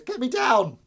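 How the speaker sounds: high, loud squeaky cat voice; shrill pretend plea from the fence; voicing the cat. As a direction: squeal it like a stuck kitten. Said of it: "She goes".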